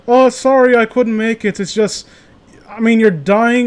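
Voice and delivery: put-on apologetic tone; mock apology. Acting Slenderman's lame excuse.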